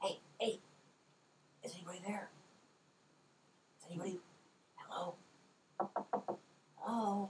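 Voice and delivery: whispered, hushed, breathy feminine goblin voice. Game master voicing someone calling through the crack in a door, feminine goblin voice. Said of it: "What sounds like a feminine goblin voice".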